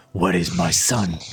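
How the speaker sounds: low, stern demand; angry father. Acted. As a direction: growl out the question. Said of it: "With this anger on his voice".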